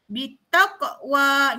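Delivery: "Bitaqwa" slow, with a light bounce on the q; qalqalah demo. Shown as a demonstration. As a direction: draw out "Bitaqwa", bouncing the stopped q. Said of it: "Contohnya qaf".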